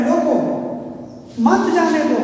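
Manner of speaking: रोको stressed, held apart from मत जाने दो; stress on roko. Shown as a demonstration. Teacher stressing रोको to show meaning. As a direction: lean on रोको, then मत जाने दो. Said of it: "अगर रोको पर बल देते हैं".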